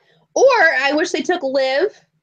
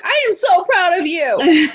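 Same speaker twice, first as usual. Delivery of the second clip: higher, slowed-down proud cheer; proud gushing; 5 semitones higher, slower than usual. Retold or imitated. Fan retelling her message to a wrestler, proud gushing. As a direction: gush like a doting fan. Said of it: "I was like".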